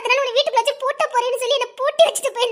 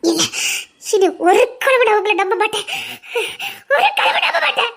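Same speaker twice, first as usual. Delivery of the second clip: distraught refusal. Acted. Distraught refusal to trust again.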